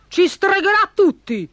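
high-pitched alarmed warning; baron's high, urgent threat; threatening cry. A narrator's reading. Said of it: "minacciò il barone".

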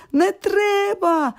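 high, drawn-out "Не треба!"; shouted refusal. A narrator's reading. Sick boy finally snapping at his friends, shouting. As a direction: cry out slowly, fed up with the visitors. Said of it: "кричить".

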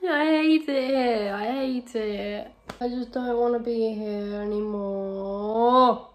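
slow, drawn-out whine; miserable whining. Real, not acted. Trying to get the mouse out, miserable whining. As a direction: moan it out miserably.

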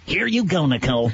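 a hint of the host's blow-up line; tossed-off catchphrase on request. Shown as a demonstration. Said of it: "could you blow me up?".

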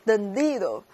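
tendido drawn out, stress on di. Shown as a demonstration. Teacher shows participle rhythm, stress on di in tendido. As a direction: stretch the di in tendido slowly. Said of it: "还有过去分词这种节奏吗".

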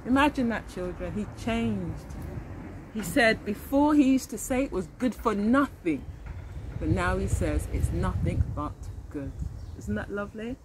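put-on reading a picture book aloud to children; gentle read-aloud narrator; story narration. A narrator's reading. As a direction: tell it like a storybook for little ones. Reads picture book aloud to class.

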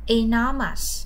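loud, clear model of Enormous; model word. Shown as a demonstration. Teacher models the word for students, loud and clear. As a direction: say Enormous out loud for the class to copy. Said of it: "Now repeat".

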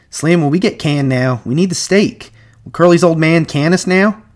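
high-pitched anxious questions; worried. A narrator's reading. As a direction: ask urgently, fearing the sack. George worries about being fired.

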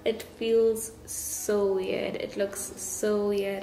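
fresh braces on teeth; talking through new braces; speaking with braces. Real, not acted. Seen 0: Metal braces visible on teeth while speaking; reference frames show none.

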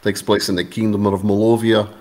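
put-on a light, terrible Slavic accent; just a hint of a Slavic accent. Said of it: "there's my terrible Slavic accent".

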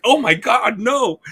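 high, squeaky mock horror; mock panic. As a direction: play dorks recoiling in fright, pitched high. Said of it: "they're like".

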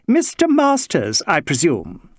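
mocking, high and slow; mocking high echo. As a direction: throw his words back with a sneer. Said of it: "with a sharp bark of a laugh".

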